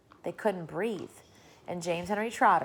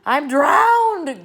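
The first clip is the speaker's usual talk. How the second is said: loud, higher spluttering gasp; gasped cry; 8 semitones higher, 13 dB louder than usual. A narrator's reading. Grasshopper after the deluge, spluttering gasp. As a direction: gasp it out, spitting water. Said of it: "gasped the old green grasshopper".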